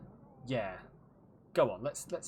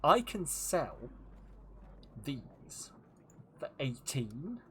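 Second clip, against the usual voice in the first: mock haggling voice; much slower than usual. Mocking merchant's haggling.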